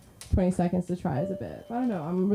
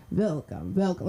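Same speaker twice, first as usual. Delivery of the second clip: vampire; 2 semitones lower than usual. Retold or imitated. Dad answering the door as a vampire, hint of vampire voice. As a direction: imitate dad's playful vampire welcome. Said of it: "he'd pretend he was a vampire".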